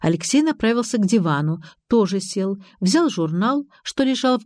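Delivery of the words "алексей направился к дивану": ordinary delivery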